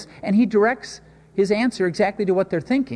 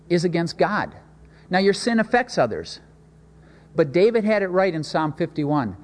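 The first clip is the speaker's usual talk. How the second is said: ordinary talk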